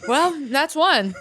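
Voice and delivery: slow, laughing line; amused, laughing aside. Real, not acted. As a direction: chuckle through it slowly. Laughing at intrusive thought.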